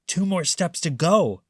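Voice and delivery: a confident burglar; thief Hugh. Acted. Thief tells his partner, a lightly voiced thief.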